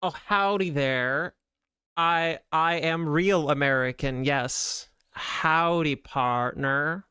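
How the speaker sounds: slow, put-on American cowboy accent, drawn-out howdy; hammed-up American cowboy greeting; mock Texan cowboy saying howdy. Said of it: "probably a really offensive American accent".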